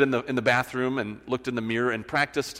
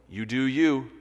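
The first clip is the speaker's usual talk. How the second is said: shrugging reply. Acted. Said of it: "responds with a modern phrase".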